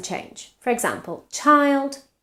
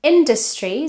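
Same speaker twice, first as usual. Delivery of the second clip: "Industry" higher on In-, schwa in the second syllable; stress on first syllable; 5 semitones higher, 4 dB louder than usual. Shown as a demonstration. Teacher contrasting vowels, "Industry" stressed on In- with a middle schwa. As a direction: punch In-, reduce the middle of "Industry". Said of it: "there is a schwa in the second syllable".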